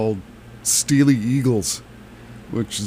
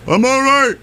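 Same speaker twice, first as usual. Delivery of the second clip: put-on thick New England accent, high and loud; 12 semitones higher, 5 dB louder than usual. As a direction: call out like a tumbled Bostonian. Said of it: "in his inimitable New England thick accent".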